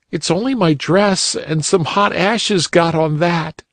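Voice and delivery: put-on little girl voice. A narrator's reading. Polly Flinders answers the bunny uncle, high and childlike. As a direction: pipe up like a small girl.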